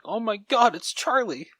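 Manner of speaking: high-pitched retold gasp of recognition; excited squeal. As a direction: squeal it like spotting a beloved dog. Retold excited reaction to film dog.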